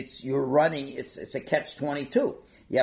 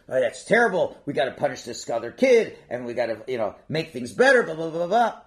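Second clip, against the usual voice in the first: louder, reactive mock outrage; mock indignant parent; 6 dB louder than usual. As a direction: imitate a parent jumping to punish. Voices parent's indignant first reaction.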